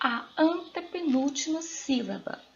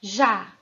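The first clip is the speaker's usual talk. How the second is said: cajá split into CA, pause, JÁ; loud, separated syllables in cajá; 3 semitones lower, 5 dB louder than usual. Shown as a demonstration. Teacher showing the last syllable, cajá split syllable by syllable. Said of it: "A última sílaba também é a última".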